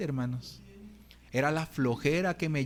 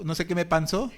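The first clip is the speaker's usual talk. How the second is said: chuckling repeat at himself; laughing at his own decline. Real, not acted. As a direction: say it again through a laugh.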